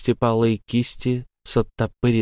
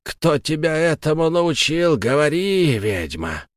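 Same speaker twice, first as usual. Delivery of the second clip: mild ghostly shout; 7 semitones higher than usual. Acted. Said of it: "кричал призрак".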